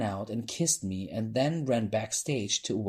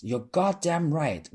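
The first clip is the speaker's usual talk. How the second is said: shouted; 7 semitones higher, 3 dB louder, slower than usual. A narrator's reading. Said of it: "one of the drag queens behind me shouted".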